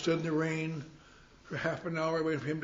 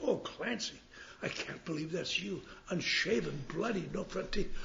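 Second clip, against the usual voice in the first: shocked; 2 semitones higher, 5 dB quieter, slower than usual. Retold or imitated. Ted shocked at his state.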